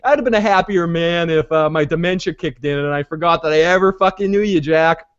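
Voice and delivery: hammed-up fed-up president, pitched high; exasperated Heller. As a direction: imitate a president at the end of his rope. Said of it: "he's just like".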